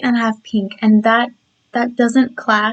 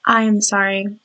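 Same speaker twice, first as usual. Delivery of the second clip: croaky voice. Real, not acted. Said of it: "my voice sounds a bit croaky or scratchy".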